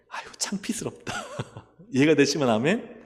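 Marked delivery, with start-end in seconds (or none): 0.1-1.1 hushed whisper of embarrassment; whispered aside. Pretend. Preacher whispering what God might think. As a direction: whisper it like a secret.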